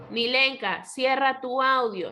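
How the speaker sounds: mild teacherly command; order. Shown as a demonstration. Teacher tells a pupil as an example, mildly ordering. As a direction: call the pupil by name, then instruct firmly. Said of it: "¿Qué estoy expresando?".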